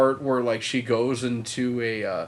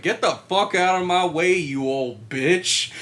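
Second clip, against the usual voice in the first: mock rude yell; 5 semitones higher, 4 dB louder than usual. Girl shoving heroine down.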